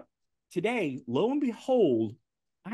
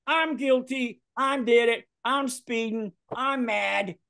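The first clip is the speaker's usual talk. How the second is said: mock confession; 9 semitones higher, slower than usual. Confessing to police officer.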